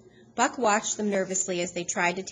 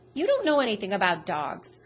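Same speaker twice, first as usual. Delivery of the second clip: sneering; 3 dB louder than usual. Acted. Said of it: "her brother sneered".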